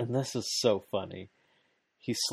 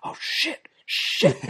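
retold yell; 8 semitones higher, 5 dB louder, slower than usual. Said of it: "you hear Don Callis yell".

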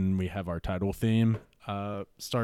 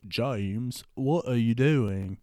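M scolding James; slower than usual. Acted. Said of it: "M is like".

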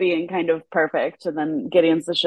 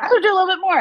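imitating actor; 11 semitones higher, 5 dB louder, much faster than usual. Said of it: "and then he's like".

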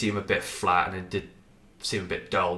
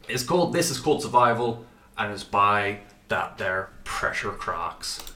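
put-on voice. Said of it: "I don't know why I did that voice".

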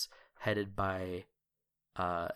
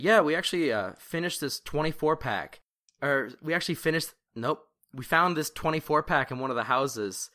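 cheery camper; 4 semitones higher, 5 dB louder than usual. Acted. NPC camper joking voice.

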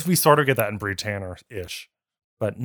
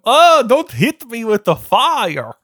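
slow, higher pitched monster plea; Frankenstein's monster voice; 8 semitones higher, 5 dB louder, much slower than usual. Acted. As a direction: whimper slowly like a scared monster. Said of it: "That's my monster impression".

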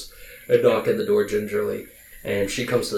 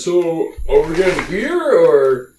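a hint of a higher, louder dim oaf; oafish NPC; 6 semitones higher, 6 dB louder, slower than usual. GM as oafish Elmo asks the party about beer, hopeful. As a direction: ask hopefully like a simple lug.

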